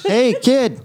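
lightly coaxing, slow sing-song Boston-free lure; coaxing lull. Pretend. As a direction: coax a kid gently, half laughing. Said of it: "you just have to lull the person".

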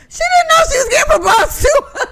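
high shrieking laugh through the words; cracking up while squealing it out; laughing hard. Real, not acted.

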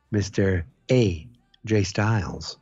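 slow, low announcer-like declaration; mock-formal pronouncement. Co-host declares his logical title prediction, mock-formal pronouncement. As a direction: trail down low into a near whisper.

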